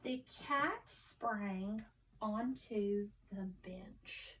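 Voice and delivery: slow but joined-up sentence reading. Shown as a demonstration. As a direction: connect the words into phrases, still slow. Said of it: "let's read it again more fluently".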